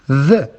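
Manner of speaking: Th as the voiced sound in then; Th voiced, not spelt out; consonant sound demo. Shown as a demonstration. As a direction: sound out Th as a buzzing "thuh". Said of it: "as in then".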